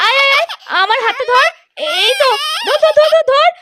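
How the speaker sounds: reach out and urge him to grab hold; coaxing call. Acted. Mother urging her stuck son to grab her hand, urgent coaxing.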